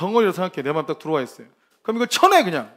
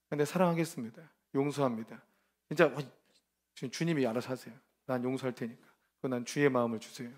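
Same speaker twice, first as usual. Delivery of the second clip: soft prayer; 5 semitones lower, 8 dB quieter than usual. Shown as a demonstration. Quiet prayer of forgiveness.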